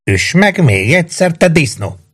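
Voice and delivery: high-pitched, goading cry; shouted defiance. A narrator's reading. Maggio goads the policeman beating him, high defiant call. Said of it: "kiáltotta Maggio".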